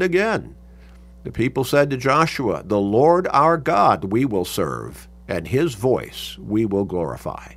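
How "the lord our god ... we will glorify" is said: slow, weighted declaration; emphatic pledge. Retold or imitated. People pledging to Joshua, emphatic. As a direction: lean firmly on each phrase of the vow. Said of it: "So emphatically".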